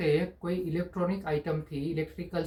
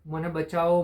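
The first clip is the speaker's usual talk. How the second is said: a mild mock cry for help, a bit louder; calling for help; 4 dB louder than usual. Trapped cup calling from inside the oven, mild mock yell. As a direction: call out for rescue in a storyteller's half-shout. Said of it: "અંદરથી મદદ માટે બૂમો પાડતો રહ્યો".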